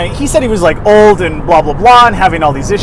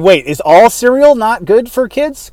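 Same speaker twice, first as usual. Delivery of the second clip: mock surprise; 5 semitones higher, 3 dB louder than usual. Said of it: "you're saying".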